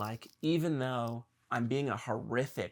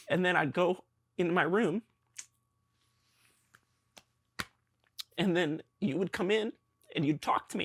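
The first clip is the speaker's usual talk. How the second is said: high, choked-up voice on the verge of tears; 6 semitones higher, 4 dB louder than usual. Recalling to the listener how they'd send the speaker to their room: choking up. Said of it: "I'm gonna cry here".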